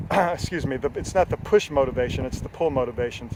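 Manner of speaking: normal talking voice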